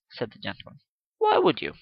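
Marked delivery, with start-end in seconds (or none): 1.2-1.7 pressing question. Acted. Gentleman pressing the girl.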